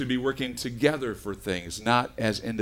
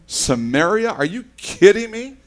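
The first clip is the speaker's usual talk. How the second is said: mock disbelief; 9 semitones higher, 9 dB louder than usual. Disciples' mock reaction.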